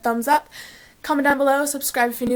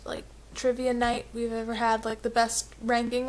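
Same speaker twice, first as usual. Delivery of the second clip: whispering; 6 dB quieter than usual. Real, not acted. Excited recap of quiz night.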